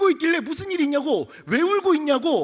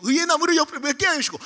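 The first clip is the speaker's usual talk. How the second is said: put-on older boys praying. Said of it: "옆에서 형들이". (음을 높인 형들의 기도 흉내)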